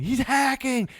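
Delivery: high mock yell of a kid; mock kid scream. Imitating a kid accusing an enemy of hacking, high mock yell. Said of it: "And they scream".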